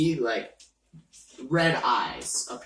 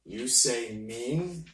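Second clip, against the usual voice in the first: mysterious entity voice; 3 semitones lower, 5 dB quieter, slower than usual. Acted. GM voicing slow entity.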